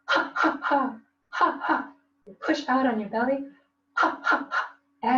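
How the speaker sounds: breathy pushed-out ha ha; demo laugh. Shown as a demonstration. Teacher demonstrating laughing exhale breaths. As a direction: push each ha from the belly. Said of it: "exhale when you laugh, when you go".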